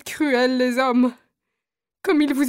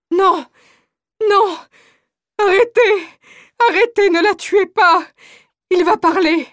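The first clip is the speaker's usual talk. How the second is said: loud, higher, frantic begging; desperate pleading shout; 4 semitones higher, 4 dB louder than usual. Acted. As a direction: cry out to stop the execution. Mother begs soldiers not to kill.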